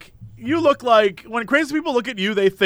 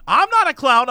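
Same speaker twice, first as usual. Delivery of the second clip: pitched-up mock indignation; retold mad protest; 4 semitones higher, 3 dB louder than usual. Stranger objecting to being asked to leave, mock indignant. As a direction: imitate an offended man, a little worked up. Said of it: "was so mad".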